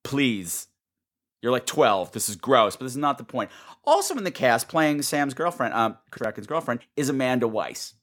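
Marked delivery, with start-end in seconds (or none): 0.0-3.5 put-on low, unimpressed girl-please brush-off; sassy dismissal. Mocking a girl waiting to be rescued, sassy brush-off. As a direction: wave her off with sass. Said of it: "I'm like".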